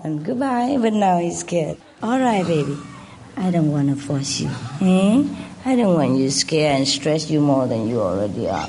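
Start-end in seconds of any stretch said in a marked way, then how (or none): 2.0-8.6 gentle reassurance. Real, not acted. Soothing scared bird.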